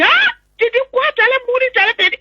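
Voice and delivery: high-pitched shocked exclamation, retold; imitated high cry of dismay; alarmed grandmother. Grandmother's alarmed reaction acted out.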